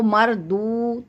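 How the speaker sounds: मरदू with the final ū held a little long; lengthened vowel. Shown as a demonstration. Teacher explains madd to student, मरदू with lengthened दू. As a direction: stretch the दू in मरदू for one alif. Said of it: "थोड़ा सा लंबा".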